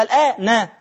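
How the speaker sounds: "الآن" pronounced al-aa-na; final fatha sounded. Shown as a demonstration. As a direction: let "الآن" end on a short "a" after the nun. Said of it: "حسب ما تنطق تطلع علامة البناء".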